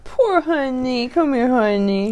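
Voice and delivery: slow, tender pet talk; cooing to a pet. Real, not acted. Cooing to the dog.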